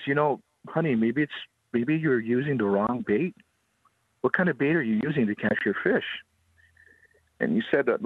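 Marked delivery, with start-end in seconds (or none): 0.0-6.0 lightly raised, coaxing voice; voiced gentle concern. Tour owner helps the crying girl with bait, acted gentle coaxing. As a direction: gently coax a small child. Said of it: "it's kinda heartbreaking".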